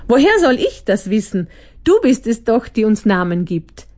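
mildly grumpy retort. Acted. The nameless monster answers the narrator, mildly grumpy. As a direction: snap back, lightly cranky. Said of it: "erwiderte es grantig".

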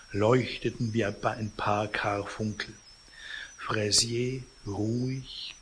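measured read-aloud novel narration; story narration. A narrator's reading. Reader recounts the vultures in the sleeping man's flat, story narration. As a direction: read the tale expressively, phrase by phrase.

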